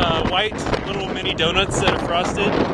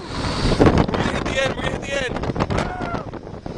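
excited; 7 semitones higher, much slower than usual. Real, not acted. Excited sledding run.

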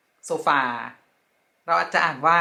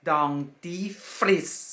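slow teaching; much slower than usual. Shown as a demonstration. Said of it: "เราอ่านว่า".

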